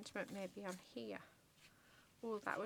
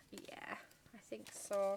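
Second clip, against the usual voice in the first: whisper. Real, not acted. Crafter deciding quietly to herself.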